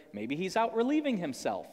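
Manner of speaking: sly teasing suggestion, pitch rising then falling; lightly acted taunt; mock taunting. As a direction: tease them with a pretend-innocent guess. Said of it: "Elijah starts taunting them".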